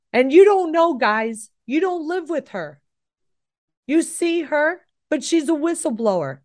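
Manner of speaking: high, strained tearful outburst, pitch well up; retold crying son. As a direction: imitate her son near tears, fed up. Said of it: "then he started bawling".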